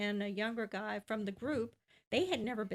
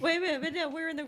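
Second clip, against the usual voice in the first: loud, higher-pitched interjection; raised voice; 6 semitones higher, 7 dB louder, much faster than usual. Real, not acted. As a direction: cut in loudly over the others. Cutting in over teasing and laughter.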